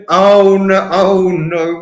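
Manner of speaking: loud laughing oh no. Real, not acted. Streamer laughing at his own swearing. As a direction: laugh through mock dismay.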